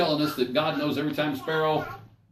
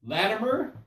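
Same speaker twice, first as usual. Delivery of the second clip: name lifted high with a rising tune; rising call to self; 6 semitones higher, slower than usual. Retold or imitated. Latimer warns himself before the king, rising call. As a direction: call your own name up like a question. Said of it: "Then I thought".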